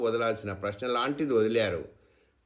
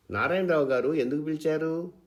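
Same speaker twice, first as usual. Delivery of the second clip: higher, louder anxious question; wife anxiously asking husband; 6 semitones higher, 3 dB louder than usual. A narrator's reading. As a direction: ask it fast with worry. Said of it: "ఆతృతంగా అడిగింది అనిత".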